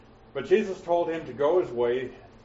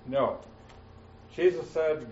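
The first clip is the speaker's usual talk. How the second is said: normal talking voice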